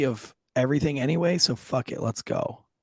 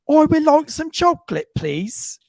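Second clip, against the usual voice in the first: put-on polite kid voice; 13 semitones higher, 6 dB louder than usual. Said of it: "And he's like".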